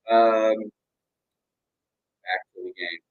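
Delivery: muffled, underwater sound; like talking through water. Real, not acted. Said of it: "I sound like I'm underwater".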